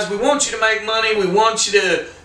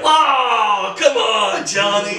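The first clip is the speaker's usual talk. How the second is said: imitating a drawn-out, higher-pitched plea; mock protest; 3 semitones higher, much slower than usual. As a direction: act out a mild protesting appeal. Acted protest at being sent home.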